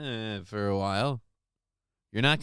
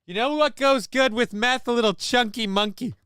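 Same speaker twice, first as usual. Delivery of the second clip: mock junkie voice; 8 semitones higher than usual. Mocking a thief's voice.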